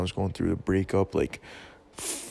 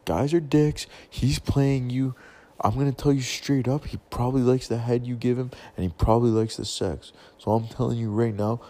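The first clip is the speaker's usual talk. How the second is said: louder, blunt straight talk; tough love; 4 dB louder than usual. Retold or imitated. Fed up, telling the heartbroken girl straight, louder. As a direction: lay it out to her loud and straight. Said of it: "I just said, I'm like".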